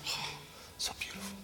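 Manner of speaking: a breath of wonder at the vision; awed whisper. Real, not acted. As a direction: whisper it in awe, almost no voice. Awed aside while reading the vision.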